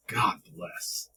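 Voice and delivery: soft breathy whisper; whispered benediction; whispered sign-off. Acted. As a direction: breathe it out as a closing blessing. Mock sign-off.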